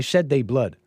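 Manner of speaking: lightly put-on African accent; mock African accent. Host defending his impression, light mock African accent. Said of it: "an accent".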